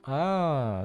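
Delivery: ordinary talk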